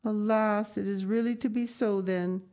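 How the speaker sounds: a hint of sorrow, longing for the child; sighing grandmother. Blind grandmother lamenting Heidi leaving, mildly sorrowful. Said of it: "sighed the grandmother".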